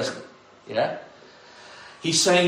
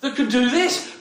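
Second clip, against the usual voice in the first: much higher, slower gasp of amazement; astonished crowd; 9 semitones higher, slower than usual. Retold or imitated. Disciples reacting to the calmed storm: stunned amazement. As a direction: cry out in disbelief at the miracle. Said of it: "And the people say".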